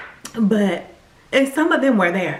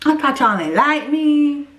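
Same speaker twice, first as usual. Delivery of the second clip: teary disbelief; 4 semitones higher than usual. Retold or imitated. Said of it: "I just started crying".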